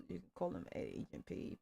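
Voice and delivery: low, soft, whispery aside; spoken song interjection. Acted. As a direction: drop low and soft between sung lines. Spoken aside within theme song.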